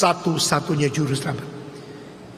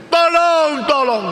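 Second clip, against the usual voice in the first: high, loud acted shout for rescue; high-pitched acted cry for help; 10 semitones higher, 7 dB louder, slower than usual. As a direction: yell out for someone to save you. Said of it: "Sekarang dia teriak".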